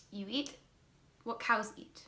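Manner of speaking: imitating broken English with a Cuban accent; bad Cuban accent. Cuban host teasing the vegan guest, bad Cuban accent. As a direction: put on a clumsy Cuban accent. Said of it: "I said that in such a bad accent".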